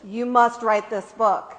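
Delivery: slow, determined urging, retold; forceful instruction. Friend urging her to write the book, imitated forceful instruction. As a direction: imitate a firm, deliberate command. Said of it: "determined, forceful instruction".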